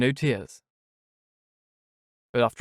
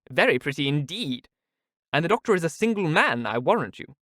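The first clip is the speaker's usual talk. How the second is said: higher, knowing teasing tone; Mrs Jennings, teasing; 5 semitones higher than usual. Acted. Mrs Jennings teases Miss Steele, higher. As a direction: tease her about the doctor. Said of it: "cried Missus Jennings".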